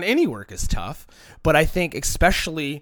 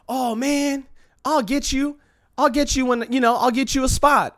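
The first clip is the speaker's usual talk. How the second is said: mock smarmy promise; 10 semitones higher than usual. Quoting empty promisers.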